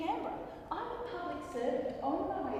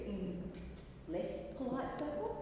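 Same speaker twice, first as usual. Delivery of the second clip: pointed contrast; 6 dB quieter than usual. Acted. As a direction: lift "circles" up at the end. Contrasts polite with less polite.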